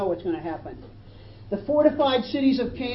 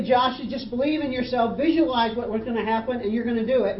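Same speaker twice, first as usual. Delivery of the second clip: raised, insistent self-help pitch; mock motivational coach; 3 semitones higher, 3 dB louder than usual. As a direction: urge it on like a success seminar speaker. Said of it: "He didn't say".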